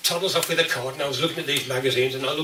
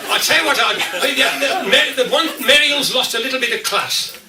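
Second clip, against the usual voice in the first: still laughing; 7 semitones higher, 3 dB louder than usual. Real, not acted. Talks still high from laughing.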